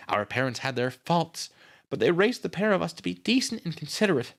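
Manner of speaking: high-pitched character voice telling what happened; grieving sister, distressed. A narrator's reading. Nita tells Miss Miller how Brad was found, distressed.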